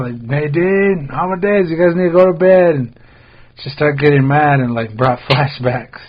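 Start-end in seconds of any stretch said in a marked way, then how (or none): 0.2-2.8 imitating mom. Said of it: "my mom's always like".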